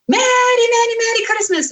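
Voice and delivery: high, loud mock South American accent. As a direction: call out a hammed-up South American Christmas greeting. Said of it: "doing this funny South American accent".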